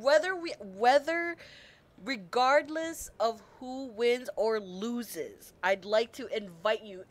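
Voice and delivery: loud, slow excited quote; excited retelling. Retold or imitated. Streamer quoting the character's invitation, excited. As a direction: repeat his words in giddy disbelief.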